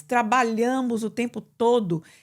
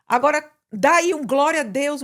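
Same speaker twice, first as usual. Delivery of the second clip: rallying call; 4 semitones higher, 5 dB louder than usual. Retold or imitated. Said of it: "Aí fala assim".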